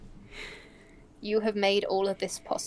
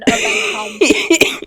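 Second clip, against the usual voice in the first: loud hum; 5 semitones higher, 10 dB louder, much slower than usual. Acted. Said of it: "the loudest hum".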